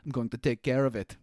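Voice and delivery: The speaker's line comes out sounding Russian, an Irish try slipping; a failed Irish accent that drifts Russian; accidental Russian accent. Acted. Co-host mocks the Irish voice that sounds Russian. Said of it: "that sounded Russian".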